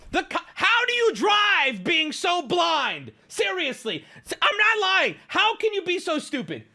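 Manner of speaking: heated, high-pitched outburst; exasperated rant. Real, not acted. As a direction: berate them in real exasperation. Exasperated rant at wrong chatters.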